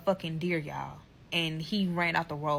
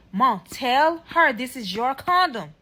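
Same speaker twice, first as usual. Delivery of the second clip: higher, louder, drawn-out appeal; insistent plea; 4 semitones higher, 5 dB louder, slower than usual. Retold or imitated. Son urging mother to back his story, insistent. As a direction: imitate a son begging, stretching the words.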